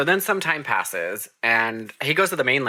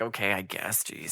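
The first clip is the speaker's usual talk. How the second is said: mock reluctant sigh; 6 semitones lower, 10 dB quieter than usual. Reluctant Edward giving in.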